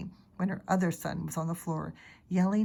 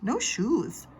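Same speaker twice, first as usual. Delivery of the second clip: put-on little boy refusing; 5 semitones higher, 3 dB louder than usual. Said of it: "Fudge said".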